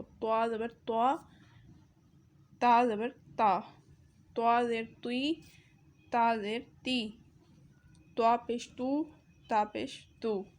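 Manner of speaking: طا زبر طا said full and heavy, تا زبر تا light and thin; heavy ta versus light ta. Shown as a demonstration. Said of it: "طا اور تا میں فرق واضح ہو".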